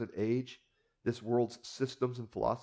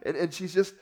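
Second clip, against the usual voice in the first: normal talking voice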